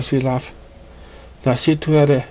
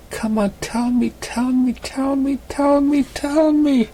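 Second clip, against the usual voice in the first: each tell me climbing higher and whinier; pleading, rising higher; 13 semitones higher, slower than usual. Acted. Pestering friend begs him, climbing higher each time. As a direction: wheedle him, pitch rising every time.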